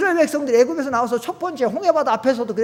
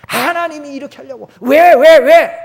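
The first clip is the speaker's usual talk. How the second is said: loud, rising protest ending in a yell of 왜; complaining cry; 3 semitones higher, 10 dB louder than usual. Acted. Israelites complaining loudly to God at the sea. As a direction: cry out why in frustration.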